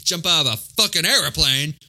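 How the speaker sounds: put-on Southern accent; hammed-up Southern soldier's speech; Aldo. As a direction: imitate a bad Southern movie accent. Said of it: "one of the most painful Southern accents".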